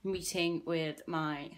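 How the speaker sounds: breathless from hurrying home; puffing between words, out of breath. Real, not acted. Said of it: "I'm so out of breath".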